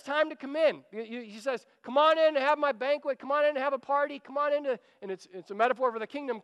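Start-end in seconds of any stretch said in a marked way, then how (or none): 1.8-4.8 high, quick, eager host calling guests in; insistent, higher-pitched welcome; urgent invitation. Acted. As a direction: call out the invitation as the banquet host. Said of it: "he's inviting everyone to come in".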